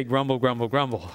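low, sulky grumble grumble, grumble, grumble; grumbling. Shown as a demonstration. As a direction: mutter it low like a sulking complainer. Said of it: "Why don't you say".

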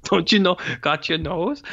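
put-on high, stilted kid line reading; mocking bad child actor. Echoing the daughter's awful line, high and stilted. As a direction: parody a wooden child actor. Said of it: "the delivery of that stuff is so bad".

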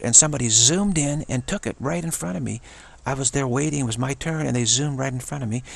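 mildly outraged friend, pitched a bit up; imitating an aggrieved friend; retold indignation. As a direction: relive a friend's complaint with some heat. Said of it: "she was so mad. She was furious".

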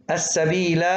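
السبيل ending in long "laa"; waqf with alef. Shown as a demonstration. Teacher showing the stopped form, long alef on السبيل. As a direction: stop on السبيل holding final "aa". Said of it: "وقفًا".

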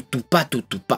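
mouthing a drum pattern "tu, pa, tu, tu, pa", crisp; imitating a drum beat with the mouth; drum hit sounds. Shown as a demonstration. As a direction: spit out "tu" and "pa" like kick and snare hits. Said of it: "puedes marcar mucho la pronunciación del tu".

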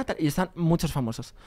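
ordinary talk, nothing marked

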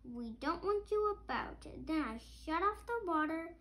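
lively storybook read-aloud; reading to children. A narrator's reading. Parent reading a picture book to a child, lively. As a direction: read it like a bedtime book for kids.

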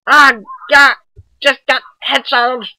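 high squeaky chipmunk voice. Acted. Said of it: "you guys like my chipmunk voice?".

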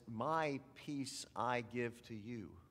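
slow, gently voiced divine promise; gentle reassurance. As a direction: offer it slowly as quiet comfort. Quoting God's comforting words.

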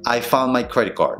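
"found" as "foun", "card" as "car"; dropped Ds. Shown as a demonstration. Teacher repeating for learners, reduced pronunciation. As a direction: link it without final D or T. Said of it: "Olvídate de esa pronunciación de esas D's".

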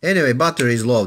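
sped-up playback, fast and chipmunky; quick sped-up recorder voice; sped-up tape. Shown as a demonstration. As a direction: play it back too fast like a tape. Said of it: "let's change speeds to see what kind of robotic voice".

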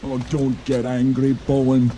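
pleading. Acted. Calming an angry dragon.

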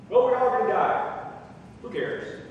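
acted uncaring brush-off; callous dismissal. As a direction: wave grief away as nothing. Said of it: "That's what you're saying".

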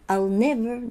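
strong first syllable in "never"; stress on NEVER. Shown as a demonstration. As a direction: lean on "never" as the key word. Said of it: "重要なので". (「never」を強調)

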